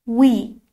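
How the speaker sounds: وی with a v from the teeth; the wrong v version; wrong v sound. Shown as a demonstration. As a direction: use the v, not the w. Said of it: "نه وی".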